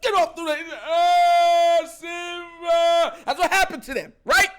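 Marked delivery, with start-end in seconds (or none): 0.0-3.2 loud, high shout at Simba; hammed-up villain yell; mock scolding shout. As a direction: yell it like Scar chasing Simba off. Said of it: "scarred them and said".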